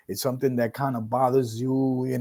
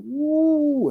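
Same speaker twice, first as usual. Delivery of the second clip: hype woo; 14 semitones higher than usual. Real, not acted. Hype after intro.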